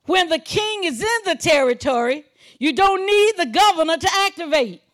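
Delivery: high, loud sermon delivery; full-force preaching. Real, not acted. Preacher explaining why the governor is here in the earth, full-force preaching. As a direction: declare it forcefully to the congregation.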